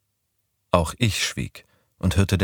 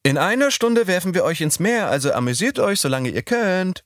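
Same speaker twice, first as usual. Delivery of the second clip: higher, lightly voiced playful threat; Midori's mock pirate threat; 13 semitones higher than usual. A narrator's reading. Narrator voicing Midori mimicking pirates, higher, playful. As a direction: Midori hamming up pirate speech.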